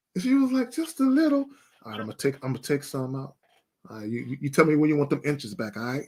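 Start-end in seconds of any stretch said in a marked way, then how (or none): 1.9-6.1 soft, hushed, murmured, close-up half-whisper. Showing how he talks to her while leaning over, re-enacting a half-whisper. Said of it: "So so I'm whispering to her".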